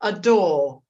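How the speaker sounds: slow, spaced-out model sentence; measured, word-by-word for learners to copy; mirroring model. Shown as a demonstration. Teacher repeats the sentence to mirror, slow deliberate demonstration. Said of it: "now let's say it again".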